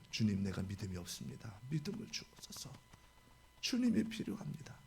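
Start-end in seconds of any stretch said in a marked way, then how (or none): 0.1-2.7 much lower and softer, fading to a whisper; humble prayer. Pretend. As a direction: pray it humbly under your breath. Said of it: "예수를 구해야 되는 거예요". (낮고 조용한 간구 기도)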